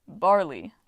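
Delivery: twinkling reveal. A narrator's reading. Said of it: "his eyes twinkled".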